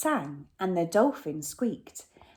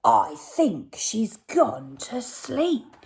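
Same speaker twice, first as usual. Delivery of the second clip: robber Hugh; 3 semitones higher, slower than usual. Acted. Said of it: "Said Hugh".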